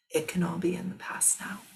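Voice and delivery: a hushed, soothing release; soft reassuring whisper. Real, not acted. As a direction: whisper it gently, like closing a wound. Soothing a questioner about past shame.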